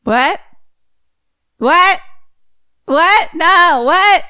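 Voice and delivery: repeated high, loud rising whats; can't believe what she just heard; shocked disbelief. Real, not acted. Listener stunned by the twist, high incredulous whats.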